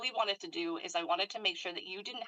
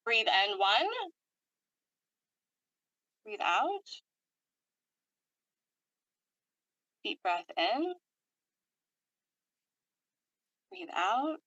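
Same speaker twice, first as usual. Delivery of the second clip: unhurried cues, each ending on a lift; guided breathing; 3 semitones higher, slower than usual. Real, not acted. Leads breathing exercise.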